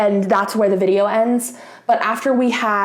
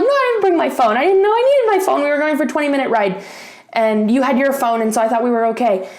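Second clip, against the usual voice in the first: higher, fast, rattled-off protest; exasperated retort; 4 semitones higher, faster than usual. Retold or imitated. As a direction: fire it back at him, exasperated. Retelling her reply on roadside.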